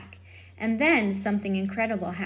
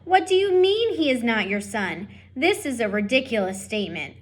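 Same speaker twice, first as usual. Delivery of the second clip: indignant French mother; 4 dB louder than usual. Acted. Antoinette scolding her husband.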